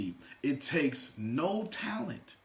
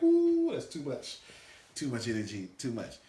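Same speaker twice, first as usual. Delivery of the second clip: overwhelmed introvert; 3 semitones lower than usual. Retold or imitated. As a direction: shrink from too much energy. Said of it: "Anybody introvert".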